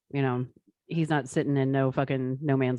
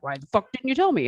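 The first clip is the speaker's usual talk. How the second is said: retold indignant demand, a bit higher; pissed-off dad; 5 semitones higher, faster than usual. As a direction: imitate an annoyed dad demanding an answer. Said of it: "he was all pissed off".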